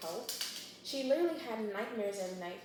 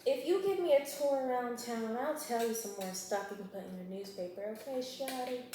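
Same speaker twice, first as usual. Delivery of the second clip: flirty detective imitation. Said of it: "He's like".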